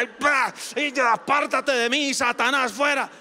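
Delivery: whack and banish Satan in jest; mock Bible-swinging rebuke. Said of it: "le va a dar con bibliazos".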